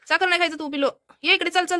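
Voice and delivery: gently scold, then call the pet over. Real, not acted. Vlogger pulling her pet away from the sugar, high coaxing call.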